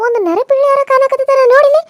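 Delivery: high, loud jeering call; loud gloating villain; mocking taunt. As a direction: taunt her that nobody is around. Villain taunts the trapped woman.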